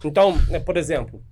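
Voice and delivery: talking with mouth full; words around a bite of chocolate. Real, not acted. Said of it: "falando de boca cheia".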